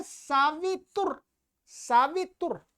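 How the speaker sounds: सावितुर in split syllables, ending on a halted 'r'; final R attached. Shown as a demonstration. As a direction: say saa-vi-tur with no vowel after the r. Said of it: "तु के बाद रा है". (सावितुर, अंत में आधा र)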